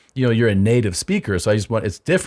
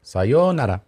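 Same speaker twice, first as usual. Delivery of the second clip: drawn-out Japanese phrase, lifted in the middle; exaggerated language drill; language-app greeting; 3 semitones higher than usual. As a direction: recite it like a phrase-app prompt. Showing off app-learned Japanese greetings.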